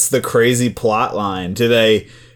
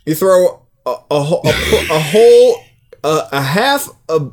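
ad pitch voice; 7 semitones higher than usual. Pretend. Fake KFC ad.

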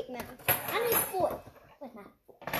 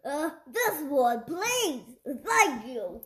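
put-on British accent; 4 semitones lower, slower than usual. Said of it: "That's a very good British accent".

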